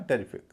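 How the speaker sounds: टेरिफिक with a full "te" opening; common mispronunciation. Shown as a demonstration. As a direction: say टेरिफिक as "TE-ri-fik", first vowel a clear e. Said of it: "लोग इसे टेरिफिक कहते हैं".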